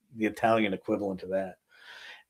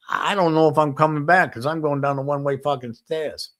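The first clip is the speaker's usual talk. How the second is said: dramatic outburst; 5 semitones higher, 5 dB louder than usual. Retold or imitated. Dramatic farewell before feared meeting.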